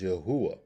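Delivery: "Yahuwah" with an oo in the middle, yuh-HOO-ah; "Yahuwah" stressed on the hoo; pronunciation variant. Shown as a demonstration. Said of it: "Some pronounce it as".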